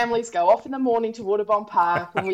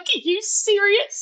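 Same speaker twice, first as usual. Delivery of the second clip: high, slow disbelieving squeak; mock shock at the kids; hammed-up are you serious; incredulous; 12 semitones higher, slower than usual. Incredulous retold reaction.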